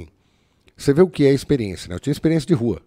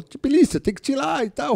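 high mock boss voice, lightly done; 12 semitones higher than usual. Boss brushes off the wait for forensics, mimicked high. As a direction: snap it back as her. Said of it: "Ela metia o Cebolinha".

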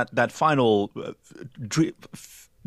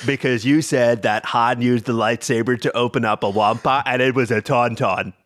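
nerd voice; 4 semitones lower than usual. Acted. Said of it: "I'm putting on my nerd voice".

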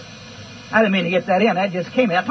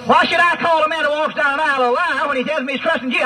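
usual speaking voice

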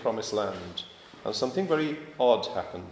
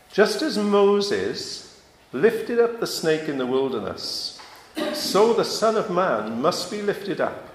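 scripture reading; 3 dB louder than usual. Acted. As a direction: read the verses out to the church, weighty and measured. Reads scripture aloud to congregation.

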